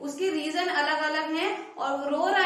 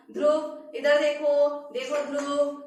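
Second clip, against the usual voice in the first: put-on calling the child; 4 dB louder, slower than usual. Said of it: "जैसे आपने उसको बोला".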